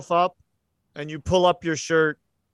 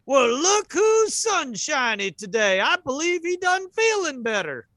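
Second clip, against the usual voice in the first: shouting cowboy; 12 semitones higher than usual. Acted. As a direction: call out like a rough camp hand. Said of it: "one of the guys shout out".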